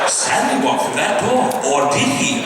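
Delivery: slow British narrator, lightly put on; mild British storybook narrator; British accent. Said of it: "in a slightly British voice".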